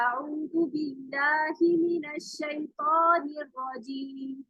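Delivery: slow, measured tajweed chant; unhurried recitation; slow Quranic recitation. Shown as a demonstration. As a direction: recite it slowly like a teacher modelling. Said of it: "ऐसे ही".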